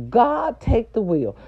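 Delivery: high, loud plea to God; exasperated outcry; exasperated cry. Real, not acted. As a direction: throw it up to heaven in disbelief. Exasperated rant at nurse.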